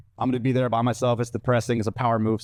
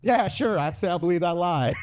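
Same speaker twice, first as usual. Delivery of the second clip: higher, mock sarcastic; sarcastic reply; 4 semitones higher than usual. Answering the girlfriend, sarcastic and higher. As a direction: sneer it like you don't buy it. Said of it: "and I quote".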